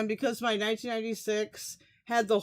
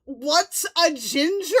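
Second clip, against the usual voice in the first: louder, higher incredulous echo; louder disbelief; 3 semitones higher, 4 dB louder than usual. Real, not acted. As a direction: say it again, louder and amazed. Repeating Fallon's question louder.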